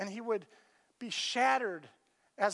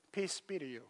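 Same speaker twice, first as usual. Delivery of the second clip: quiet, tender blessing; soft low Jesus greeting; hushed peace; 5 semitones lower, 8 dB quieter than usual. Acted. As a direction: lower and much softer, a gentle greeting. Jesus appears among them.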